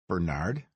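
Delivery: "Bernard?" as ber-NARD, the second syllable stressed, rising question. Acted. Kurtz echoes Gonzaga's way of saying the bodyguard's name, stress on NARD. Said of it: "putting the emphasis on the second syllable".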